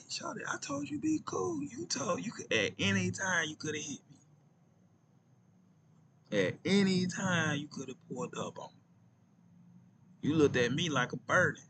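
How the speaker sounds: mock indignant shout; high exasperated protest. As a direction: throw it back at her, worked up. Retold comeback to angry girl.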